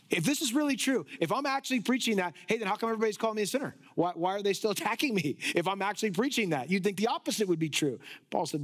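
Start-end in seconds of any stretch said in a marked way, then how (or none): 0.1-6.7 quick, lightly acted exasperated questioning; mock protest. Preacher voicing Paul asking why he is attacked, quick mock protest. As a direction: argue back in a hurried, higher pitch. Acting Paul's puzzled protest.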